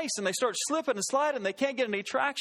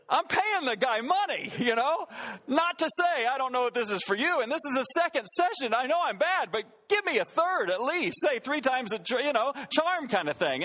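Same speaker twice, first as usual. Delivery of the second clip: higher-pitched, indignant protest; a little offended; 4 semitones higher than usual. Retold or imitated. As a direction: retell it as a miffed paying customer. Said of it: "I was a little offended".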